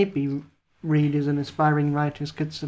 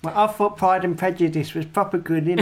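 put-on Essex accent. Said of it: "That sounds like Gemma".

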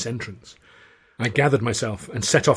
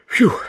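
short loud huff; gruff puff of contempt; dismissive grunt; 8 dB louder than usual. A narrator's reading. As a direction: grunt it out scornfully. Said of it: "Considine grunted".

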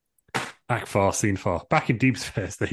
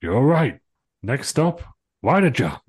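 determined; 5 semitones higher, 7 dB louder, slower than usual. Acted. Hero rallying.

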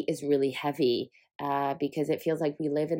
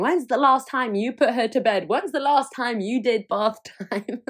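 mock accusing questions; 6 semitones higher than usual.

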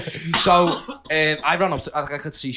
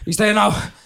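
eager bluff; 3 semitones higher, 3 dB louder than usual. Retold or imitated. Bluffing to the girl about Gerrard.

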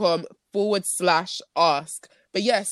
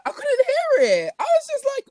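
laughing. Real, not acted. Surprised her toy was silent.

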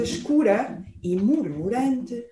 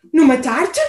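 gasping bear; 4 dB louder than usual. Acted. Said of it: "Ofegou o urso".

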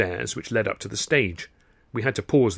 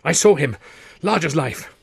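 alarmed, raised voice; gasped; 4 semitones higher, 3 dB louder than usual. Acted. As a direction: report a shocking sighting. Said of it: "he gasped".

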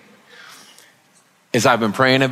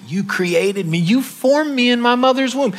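reverent quote; 9 semitones higher than usual. Acted. Quoting the grateful psalmist.

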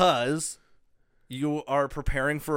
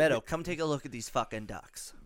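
1 bad Tony Soprano; 6 dB quieter than usual. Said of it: "that wasn't good either".

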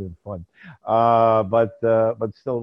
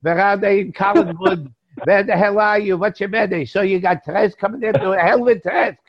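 put-on Jewish accent; 4 semitones higher than usual. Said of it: "that nice Jewish accent".

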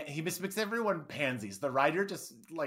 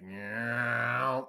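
imitated plant noise. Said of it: "they'd be like".

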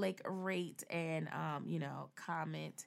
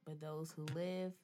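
sultry voice. Acted. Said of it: "you gonna put a sultry voice on".

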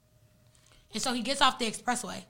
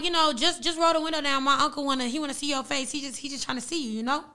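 playful bluff; 3 semitones higher than usual. Retold or imitated. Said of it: "I'm just playing with him".

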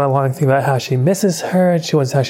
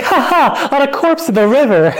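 mock cheerful; 11 semitones higher, 4 dB louder than usual. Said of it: "And she's like".

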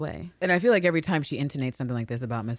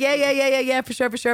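higher, louder breezy yeah-yeahs; mock eager agreement; 10 semitones higher, 6 dB louder than usual. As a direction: brush her off with fake enthusiasm. Mocking Ann Walker's evasive answer.

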